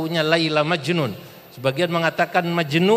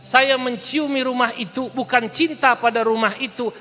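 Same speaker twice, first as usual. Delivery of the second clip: passionate declaration; 4 semitones higher, 3 dB louder than usual. Acted. Qais defends his love passionately.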